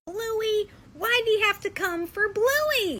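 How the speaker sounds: high, loud, drawn-out wail; mock outraged protest. Wife scolds husband for ruining kids' show, mock outraged wail. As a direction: complain in playful dismay.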